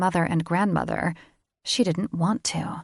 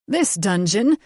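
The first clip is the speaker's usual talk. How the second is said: airy dismissive snort; 4 dB louder than usual. A narrator's reading. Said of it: "Brain snorted, airily dismissing".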